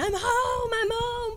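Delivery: very high, very slow, drawn-out scream. Retelling driving home with the window down: retelling own screaming. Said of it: "I was screaming".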